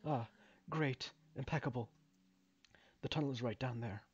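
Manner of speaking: lightly voiced game character explaining the job; a hint of a halting, polite foreman; hesitant mine worker. Same mine worker continues.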